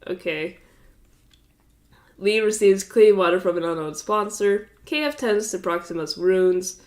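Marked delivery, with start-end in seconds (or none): 2.2-6.8 stuffy blocked nose; congested. Real, not acted. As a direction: speak through a blocked nose. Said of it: "I'm so fucking congested".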